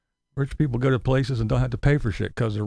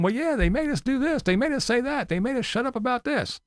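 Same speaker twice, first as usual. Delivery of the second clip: mock confession; 10 semitones higher than usual. Mocking people now confessing.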